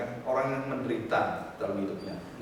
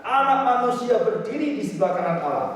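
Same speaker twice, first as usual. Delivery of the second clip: ecstatic proclamation; 9 semitones higher, 6 dB louder than usual. Acted. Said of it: "Lalu katanya".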